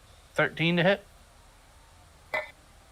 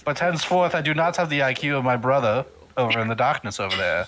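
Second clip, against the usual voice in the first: dopey cartoon bellow; 2 semitones higher than usual. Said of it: "Probably a new ogre voice".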